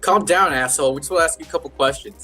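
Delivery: mild mock snap. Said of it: "She's like".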